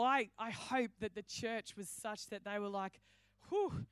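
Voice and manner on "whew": mock relieved whew. Church imagined sighing in relief.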